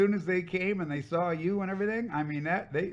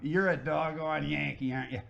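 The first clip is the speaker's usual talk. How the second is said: imitated Southern accent. Redhead lady confronting a Northern outsider, imitated Southern accent. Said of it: "with that accent".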